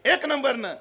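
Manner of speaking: high, loud, thrilled shout; excited son. Acted. Son tells his mother he came first, excited shout. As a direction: burst in with the good news, high and loud.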